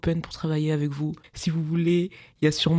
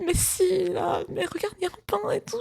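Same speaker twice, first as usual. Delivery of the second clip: much higher, insistent cousin voice; imitating cousin; 14 semitones higher than usual. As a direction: push the point like it's obvious.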